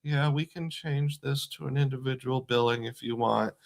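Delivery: quiet, flat, timid monotone; mousy monotone voice. Retold or imitated. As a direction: imitate a meek phone rep droning. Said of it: "speaking in a really mousy, monotone voice".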